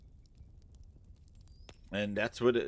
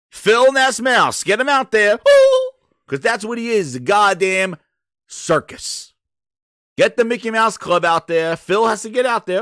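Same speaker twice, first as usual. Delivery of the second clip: mocking rant; 3 semitones higher, 3 dB louder than usual. Real, not acted.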